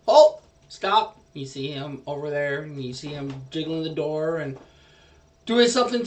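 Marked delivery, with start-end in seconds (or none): 0.1-1.2 sudden high, loud cry to stop; kobold shouting halt. Acted. Meepo halting the adventurers in the hallway, high shout. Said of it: "He says".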